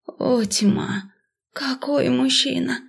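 тихий восторженный вздох героини; скажи тихо, про себя, зачарованно; восхищение. A narrator's reading. (тихо, с придыханием от восторга)

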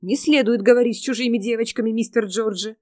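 fast, scolding nanny; a hint of a strict nanny; stern nanny. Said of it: "со строгим видом".

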